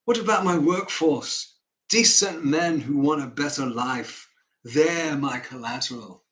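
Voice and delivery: put-on earnest northern accent; John Northbrook. Northerner offers his workforce as collateral, earnest northern accent. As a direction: argue for your men in a northern accent. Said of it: "an honest northerner who presents his argument".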